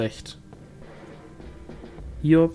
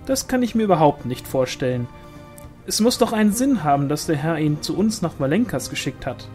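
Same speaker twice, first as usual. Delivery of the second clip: quick, swooping disbelief; animated, argumentative village woman; insistent sister-in-law; 3 semitones higher, faster than usual. Acted. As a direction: object briskly, pitch jumping on key words. Pauline contradicts, voiced in narration.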